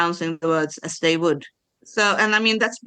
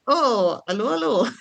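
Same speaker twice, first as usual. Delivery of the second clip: swooping, higher-pitched "oh" and greeting; delighted recognition; 4 semitones higher than usual. Acted. Podcaster mimicking her first reaction to the Gorman front, delighted recognition. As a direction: playfully exclaim it with a rise and fall. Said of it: "when you first meet the Gorman front, like".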